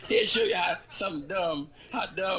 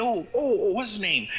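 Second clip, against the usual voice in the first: fumbling; 6 semitones higher, 6 dB louder than usual. Acted. Cat fumbling for a name.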